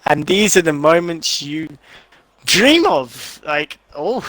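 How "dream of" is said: voice crack. Real, not acted. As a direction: voice cracking upward with excitement. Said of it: "what was that voice crack?".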